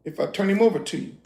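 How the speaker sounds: low, soft scheming question; softly plotting Delilah; sly quiet ask. Retold or imitated. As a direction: tempt them quietly with a deal. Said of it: "She said".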